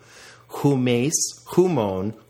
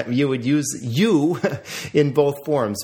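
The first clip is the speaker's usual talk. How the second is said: laughing; 2 semitones higher than usual. Real, not acted. Laughs while explaining.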